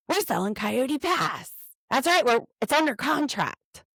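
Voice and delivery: lightly voiced Cody playing the cheerful father; mock Cody announcement. Mocking Cody telling his kids at dinner, a lightly hammed-up cheerful dad. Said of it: "Cody has an important announcement".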